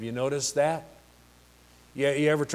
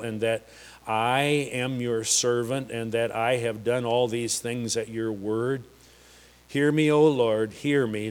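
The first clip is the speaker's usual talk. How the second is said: calm prayer. Retold or imitated. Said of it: "said, not shouted, not yelled, not cried. He just said".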